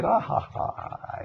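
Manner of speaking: high mocking ha-ha from an inner voice; mocking inner laugh. Inner voice teasing him during panic, high mocking laugh. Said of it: "starts laughing at me".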